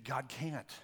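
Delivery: quiet, low private thought; inner thought. Acted. Preacher voicing the congregation's unspoken thought, quietly. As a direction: think it aloud softly. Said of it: "You're thinking".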